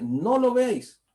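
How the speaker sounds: "no lo veáis" high, loud and slow; emphatic verse. Acted. Preacher lifting the verse up to the faithful, high and slow. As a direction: lift "lo" high and stretch the words.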